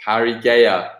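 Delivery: Parigea as parry-GAY-a; mispronounced name. Real, not acted. Quiz host repeating the awful pronunciation, Parigea as parry-GAY-a. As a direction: say Parigea with a wrong GAY syllable. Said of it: "my pronunciation of that team is awful".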